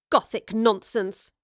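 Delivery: slow, dismissive scoff; a slow scornful dismissal. Acted. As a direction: drawl it out with contempt. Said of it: "Jane Camberwell scoffed".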